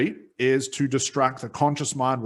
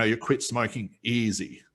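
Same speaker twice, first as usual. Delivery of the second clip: slow, even trance delivery; slow hypnotic suggestion. Shown as a demonstration. A hypnotist slowing down for a client, slow and even. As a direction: let each word settle slowly. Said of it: "I might say".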